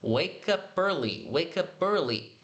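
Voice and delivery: "wake up early" run together as wakeupearly; "wake up early" joined, no breaks; linked words. Shown as a demonstration. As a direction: link "wake up early" into one slow flow. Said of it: "juntando aqui na pronúncia".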